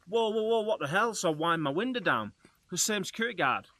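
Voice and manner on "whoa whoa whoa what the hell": startled whoa. Retold or imitated. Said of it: "I was like".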